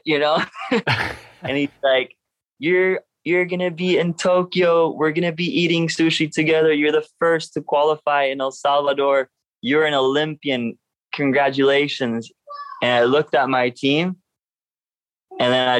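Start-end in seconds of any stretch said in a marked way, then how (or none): 2.6-12.3 lifted pitch, imitating a thrilled friend; retold excited announcement. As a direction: announce big news, starting high and easing down. Friend breaking the qualification news, retold.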